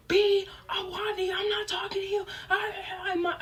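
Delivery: high-pitched mock rant; mocking imitation. Toes brushing off the mom on the phone, high mocking imitation. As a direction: put on a high voice to mimic a rude caller. Mimics rude caller yelling at mom.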